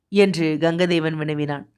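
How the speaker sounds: ordinary delivery, nothing marked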